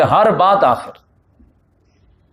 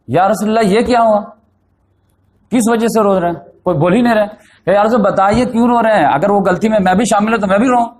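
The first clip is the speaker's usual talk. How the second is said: higher-pitched, earnest pleading questions; mildly acted distress, pitch raised; retold distressed plea; 4 semitones higher than usual. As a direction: plead as a troubled companion, retold. Retells companion pleading over weeping.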